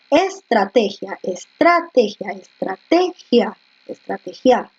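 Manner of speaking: slow "estrategia", stress on TE; slow syllable drill. Shown as a demonstration. Teacher slowly sounding out "estrategia" for the class. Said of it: "Estrategia lleva tilde o no".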